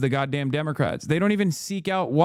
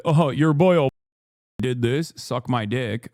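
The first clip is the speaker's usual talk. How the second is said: mocking quote; 3 semitones lower than usual. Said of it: "people stupidly say".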